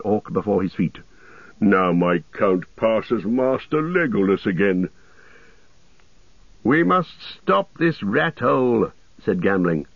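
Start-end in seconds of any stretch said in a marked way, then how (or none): 1.6-4.9 lightly voiced dwarf. A narrator's reading. Gimli boasts of his count. 6.6-8.9 higher, slow urging; lightly voiced old soldier. A narrator's reading. Gamling urging that the culvert be blocked, lightly voiced old soldier.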